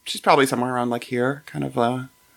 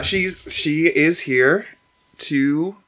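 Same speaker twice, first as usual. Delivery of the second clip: normal talking voice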